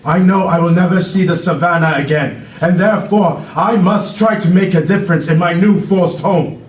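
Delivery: put-on measured speech in an African accent; Knowledge, African accent. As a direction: address the crowd gravely with an African accent. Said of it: "African accent".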